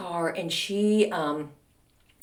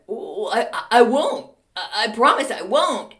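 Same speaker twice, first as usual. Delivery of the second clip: scared stammer; 3 semitones higher, 4 dB louder than usual. Retold or imitated. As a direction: stammer a mock-frightened promise. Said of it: "really getting scared".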